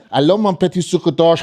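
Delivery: sweet-talking French girlfriend impression; French accent. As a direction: coo a French endearment in French accent. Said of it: "my girlfriend is French".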